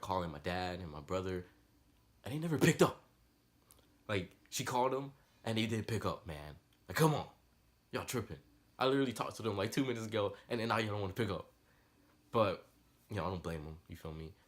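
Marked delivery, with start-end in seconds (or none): 4.6-11.5 higher, louder frustrated complaint; exasperated. Real, not acted. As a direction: vent at family not picking up. Family not answering his emergency.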